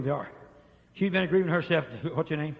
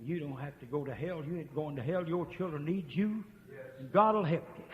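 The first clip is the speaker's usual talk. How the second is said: soft, gentle promise; a touch of reassurance; 4 dB quieter than usual. Retold or imitated. Preacher retelling his soft words to the troubled man. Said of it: "I said".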